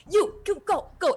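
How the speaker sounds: high, loud barked commands; frantic orders to the crew; urgent orders. Acted. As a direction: shove them out the door. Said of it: "is like".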